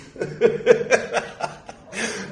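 a quick airy laugh at her own joke; breathy laugh. Real, not acted. Lecturer laughing at pairing herself with Padmasambhava, airy laugh.

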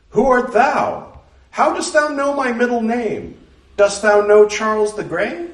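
a proud, puzzled maiden from another age; Blythe, archaic young woman. Acted. Blythe voiced in archaic speech.

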